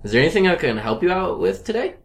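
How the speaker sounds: high, loose, tipsy-sounding question. Real, not acted. Host asks the opening question, sounding tipsy. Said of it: "I sound like I'm drunk".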